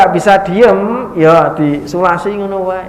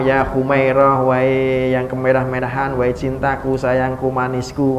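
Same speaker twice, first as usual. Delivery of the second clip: tender endearments; 3 semitones lower, 4 dB quieter than usual. Retold or imitated. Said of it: "ngomongnya sambil mesra".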